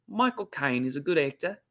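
Cockney attempt slipping into an Australian accent; Cockney gone Australian. Shown as a demonstration. Host failing at Michael Caine's accent, accidental Australian twang. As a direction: botch the Cockney so it sounds Australian. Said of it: "I just went to Australian accent".

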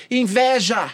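mock shout. Calling out a sin in the childhood game, mock shout. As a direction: call out "Ira!" like a game cry. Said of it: "aqueles que gritam".

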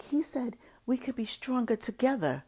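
high, whispered quote; mock whisper. Imitating the girlfriend whispering his words. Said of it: "she was like".

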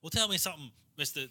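put-on tentative stab at a Southern accent; attempted Southern accent. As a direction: feel for a light Southern twang. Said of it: "remember my fucking Southern accent".

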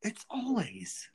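whispered aside. Real, not acted. Murmured aside about Noreen.

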